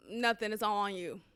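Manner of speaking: a low-key, mock brush-off; retold sarcastic, dismissive tone. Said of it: "just dismissive, attitude ass tone".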